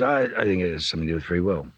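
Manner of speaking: quick, casual afterthought; offhand throwaway. Retold or imitated. Actor turning back as he walks out of shot, offhand throwaway. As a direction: toss it out lightly in passing. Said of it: "Turning back in and goes".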